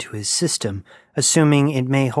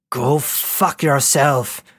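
shouted; 3 semitones higher, much slower than usual. A narrator's reading. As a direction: fling it back at her. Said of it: "shouted Ishmael this time".

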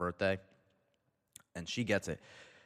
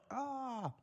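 high, soft "ah"; mock pained cry; 7 dB quieter than usual. Mock reaction to tiger bite.

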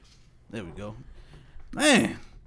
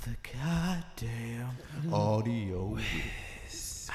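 hype announcer intro; 8 semitones lower, 15 dB quieter, much slower than usual. Pretend. Hype intro of the audio guy.

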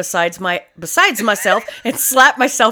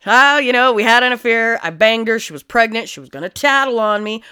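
put-on Southern accent. Killer confessing to an affair, Southern accent. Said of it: "Why am I doing this Southern accent now?".

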